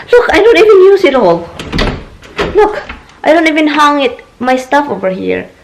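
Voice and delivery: high-pitched mock protest; indignant retort. Retelling retort to husband's accusation.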